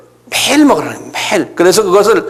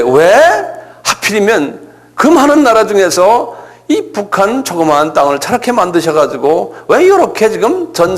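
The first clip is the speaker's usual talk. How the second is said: questioning God. Retold or imitated. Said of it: "자꾸 여쭤보는 거예요".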